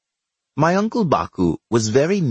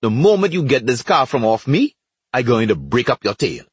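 raised, irate warning; a touch of anger; mildly shouted threat; 2 semitones higher, 3 dB louder than usual. Acted. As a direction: threaten him with a slightly raised voice. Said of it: "Baku shouted from under the car".

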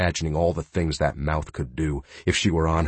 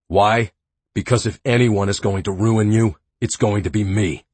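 menacing possessive threat; 3 semitones higher, 5 dB louder than usual. Acted.

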